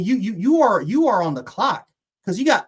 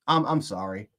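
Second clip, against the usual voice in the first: blubbering; 9 semitones lower than usual. Real, not acted. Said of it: "I'm sorry for the crying".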